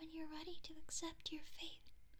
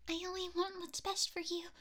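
earnest outburst; 8 dB louder than usual. Acted. Pleading outburst.

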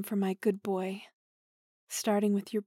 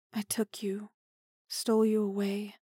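whispering. Acted. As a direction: admit it in a whisper. Confessing kidnapping.

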